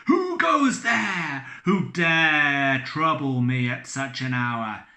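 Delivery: loud, slow challenge; challenging shout. Acted. Drunk captain challenging the late visitor, loud. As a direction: bellow at the stranger.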